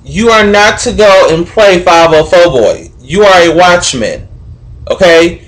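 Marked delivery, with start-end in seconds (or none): 3.0-4.3 "watchman" hit firmly on its first syllable; stress on watch. Real, not acted. Reminding the watchman of his role, stress on "watchman". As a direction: drive home the "watch" in "watchman". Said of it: "emphasize the word watch".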